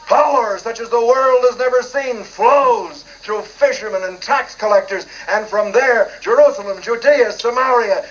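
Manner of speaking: rising sermon cadence, building fervour; preaching. Acted. Preacher retelling his sermon to a TV host, fervent preaching. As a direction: preach it like Pentecost fire.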